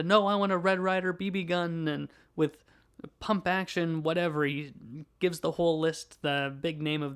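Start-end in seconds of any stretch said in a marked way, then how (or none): 0.0-1.9 retold shout. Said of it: "shouts at Santa".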